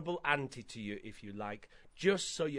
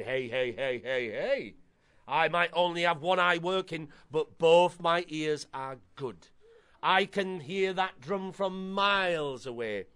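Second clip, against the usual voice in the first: lightly voiced horrible old auntie; a hint of bossy old woman, stretching key words; old lady voice. Horrible auntie sends boy further away, lightly voiced old lady. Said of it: "my best old lady voice".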